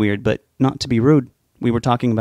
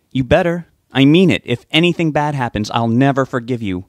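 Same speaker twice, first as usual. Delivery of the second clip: louder, higher insistent threat; stern warning; 3 semitones higher, 4 dB louder than usual. Acted. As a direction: press the warning home. Sue warns him sternly.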